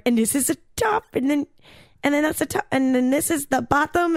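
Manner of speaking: mock-patient explaining, "top" rising like a question; a light take on the German woman pointing at each part; imitating the German host. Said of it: "and she's like".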